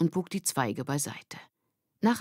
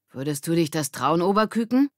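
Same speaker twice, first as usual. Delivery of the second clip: teasing; 2 semitones higher, 4 dB louder than usual. Acted. Ole teasing Lilly lightly. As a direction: tease her.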